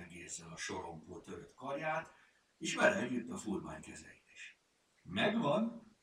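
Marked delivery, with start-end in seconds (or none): 5.0-6.0 high, loud, proud announcement. A narrator's reading. Lupi presents the finished bandaging, proudly. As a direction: show off the finished job. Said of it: "mutatott büszkén a művére".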